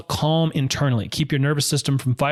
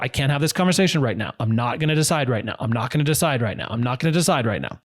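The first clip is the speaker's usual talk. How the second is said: broken record repeat; faster than usual. Shown as a demonstration. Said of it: "put on broken record".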